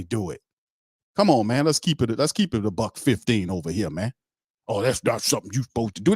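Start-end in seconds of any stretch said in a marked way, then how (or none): 4.7-6.1 quick, prim mocking voice; lightly mocking prim objector; mock prissy objection. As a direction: imitate a prissy scold, fast.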